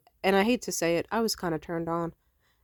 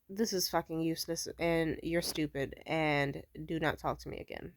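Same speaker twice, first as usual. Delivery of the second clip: cold dismissal; 6 dB quieter than usual. Retold or imitated. Coldly ending the call.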